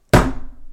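short sharp noise imitating a rock hit; imitated impact noise. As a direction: mimic the bang with a quick noise.

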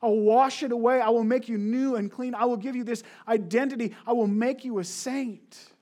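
gently voiced divine promise; voice of God. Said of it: "God says".

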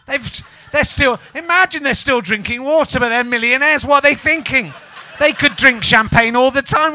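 hammed-up indignation at the winners; mock-furious, rising rant; mock outrage rant.

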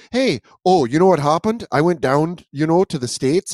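lightly imitated Canadian storyteller; mock Canadian accent. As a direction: tell it as a Canadian, slightly put on. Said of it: "I wonder if Canadians do us".

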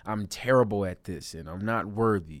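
lightly harsh, put-down tone; harsh self-talk. Shown as a demonstration. Talking down to yourself, mildly harsh. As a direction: cut yourself down, a touch aggressive. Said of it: "Do you hear how aggressive that is".

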